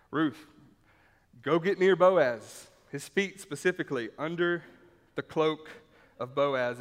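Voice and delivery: urgent command. Retold or imitated. Naomi's plan voiced by preacher.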